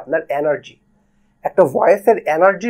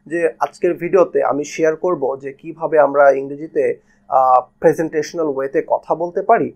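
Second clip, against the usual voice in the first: same level all through, no ups and downs; monotone delivery; 2 semitones lower than usual. Shown as a demonstration. Teacher demoing a boring monotone intro to viewers. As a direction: read it like a bored robot. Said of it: "এইভাবে কথা বললে একটা পর্যায়ে আপনার ভিতরে boring feel".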